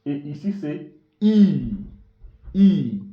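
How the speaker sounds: short I said loud and crisp; short vowel I. Shown as a demonstration. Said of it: "Ici, c'est short vowel".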